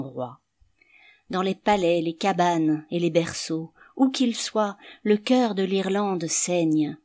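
grave, even-toned declamation; solemn poem recital. A narrator's reading. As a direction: recite it gravely, as a lament for a fallen leader.

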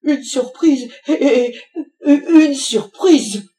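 embarrassed put-on laugh between the words; forced laugh. A narrator's reading. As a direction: laugh it off to save face. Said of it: "riait jusqu'aux oreilles pour se donner une contenance".

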